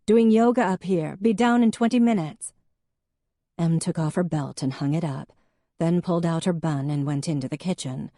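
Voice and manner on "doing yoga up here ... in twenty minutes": calling down. A narrator's reading. Ange calling down from upstairs.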